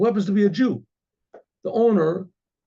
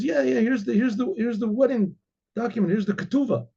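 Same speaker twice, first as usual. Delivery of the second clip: put-on higher, eager girl voice; girlish daughter; 6 semitones higher than usual. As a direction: proudly show off the document. Daughter shows marriage document.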